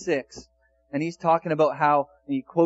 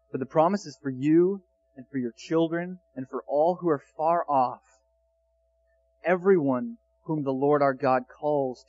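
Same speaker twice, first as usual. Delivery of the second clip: scripture reading; 2 semitones lower than usual. Acted. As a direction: let the words land gently and gravely. Reads verse thirty-seven onward.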